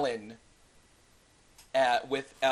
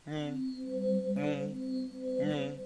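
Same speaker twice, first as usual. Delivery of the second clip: humming noise; 2 semitones higher, 5 dB quieter, slower than usual. Acted. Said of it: "you guys can hear in the back".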